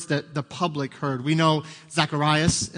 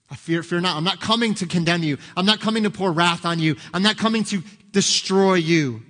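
angel's voice, building louder and higher; angel reassuring; 3 semitones higher, 4 dB louder than usual. Acted. Angel to the terrified shepherds, rising reassurance. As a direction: build it up as the angel, bolder each line.

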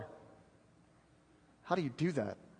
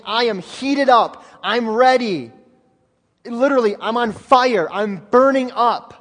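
fiery preaching; 3 semitones higher, 5 dB louder than usual. Acted. Preacher voicing Paul to the church, loud and fiery. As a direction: voice Paul on fire for the gospel. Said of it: "Paul saying".

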